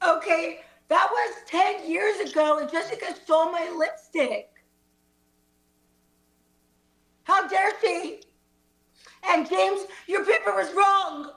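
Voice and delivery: hammed-up tearful protest; very sad. Student defending against teacher's cheating charge, very sad. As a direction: wail it a little, play-acting sadness. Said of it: "we're all very sad".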